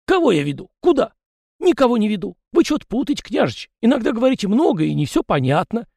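high chatty peasant voice, pitched well up; folksy yard spirit. A narrator's reading. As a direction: play the fussy little yard spirit, talking nonstop. Tikhon speaks.

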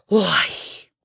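slow, stretched cry of alarm; alarmed shout. A narrator's reading. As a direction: protest in fright, drawing out the words. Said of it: "закричал он".

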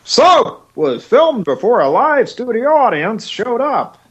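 mock the live studio audience line; mock announcer. Cohost parodying a sitcom intro in a lightly mocking announcer voice.

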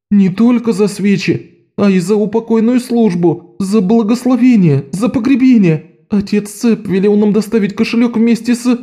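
высоко, нарастающим воем к «телом»; провыть с притворным горем; душераздирающий вой. A narrator's reading. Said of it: "душераздирающе провыл Лок". (Лок воет перед торговкой)

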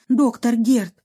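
relieved burst as she runs in; a touch of relief; exclaiming. Acted. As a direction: Lena bursts into the doctor's study, relieved. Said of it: "воскликнула она".

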